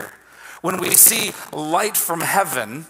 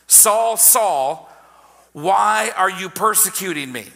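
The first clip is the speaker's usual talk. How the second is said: voice calling out. Acted. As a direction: call out by name like a voice from heaven. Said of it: "you hear this voice that calls out your name".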